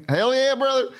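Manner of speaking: high, hammed-up wrestler yell of brother; mock wrestler. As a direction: echo the wrestler catchphrase with a laugh. Echoing the wrestler catchphrase.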